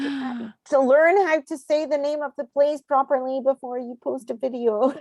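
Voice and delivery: imitated online scolding; retold scolding comment.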